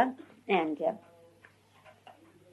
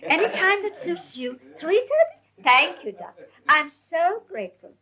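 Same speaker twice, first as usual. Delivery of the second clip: higher, mock deferential phone voice; lightly imitating an overly polite tone for doctors; doctor's voice; 6 semitones higher than usual. Gohar on the phone to the doctor, mock deferential and higher. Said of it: "she was talking to the doctor in that doctor's voice".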